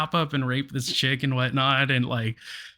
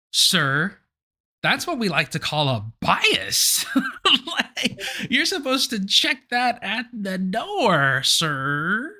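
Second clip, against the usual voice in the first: high-pitched exasperated lecturing, breaking into a laugh; incredulous comic scolding with a laugh; mock admonishment; 6 semitones higher, slower than usual. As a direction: mockingly set them straight, pitch climbing. Acted correcting of a biased juror.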